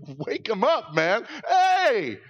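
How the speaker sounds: high, loud frantic pleading; terrified disciples shouting at sleeping Jesus; panicked disciples. Retold or imitated. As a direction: beg like you're about to drown. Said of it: "they go to Jesus, like".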